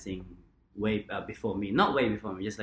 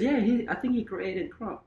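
friend's voice; 11 semitones higher than usual. Retold or imitated. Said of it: "and he goes".

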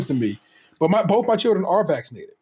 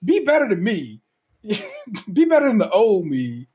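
mock pep talk; 4 semitones higher, slower than usual. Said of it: "I'm like".

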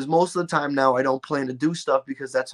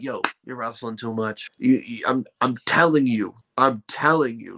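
lightly imitated stern parents, a touch lower; parents' deep voice; 3 semitones lower than usual. Parents warning their son at the house, mildly imitated deep voice. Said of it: "they would get the deep voice on".

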